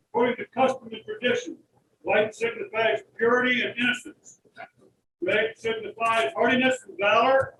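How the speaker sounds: parade ground voice. Acted. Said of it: "I'm gonna use my parade ground voice".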